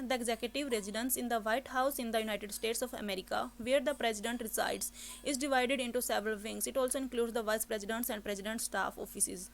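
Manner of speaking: a reading with small slips left in; hurried read aloud. Shown as a demonstration. Teacher demos a flawed exam reading, slow. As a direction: read the passage with hasty mistakes. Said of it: "जल्दी जल्दी में पढ़ते time".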